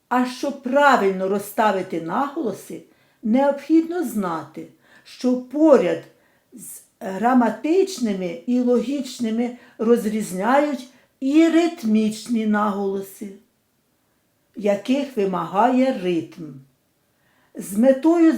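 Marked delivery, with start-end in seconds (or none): none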